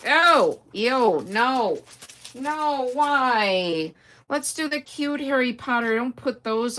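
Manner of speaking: high, loud ew of disgust. Real, not acted. Reacting to the snake pencil case, loud and high. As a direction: recoil from the snake.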